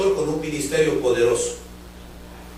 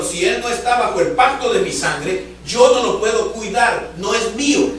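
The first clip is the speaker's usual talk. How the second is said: stern divine voice; 4 semitones higher, 3 dB louder than usual. Retold or imitated. God telling the pastor, firm and louder. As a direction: declare it like God laying down the law. God's voice in retold vision.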